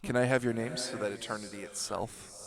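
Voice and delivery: slow, grand doom-laden villain proclaiming; dramatic villain speech. Acted. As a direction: intone it like an ancient god demanding names. Grand villain monologue continues.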